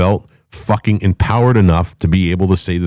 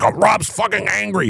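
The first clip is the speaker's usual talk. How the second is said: high, softer sneering imitation of critics; lightly mock the people who call him angry; 9 semitones higher, 4 dB quieter than usual. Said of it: "people are like".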